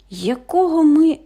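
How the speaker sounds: loud high startled; what on earth. A narrator's reading. Tied-up brother startled and confused, loud.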